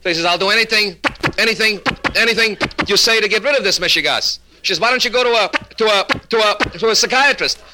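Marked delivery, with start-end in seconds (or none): 0.2-4.4 high-pitched stammer, repeating "anything"; stuttering husband. Acted. Husband promises his wife a cure, stuttering. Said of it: "a little impediment in his speech". 4.8-7.6 high, halting stammer on "to a"; caught stutter. Acted. Wife sends husband to a doctor, stuttering. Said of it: "you got me going like this".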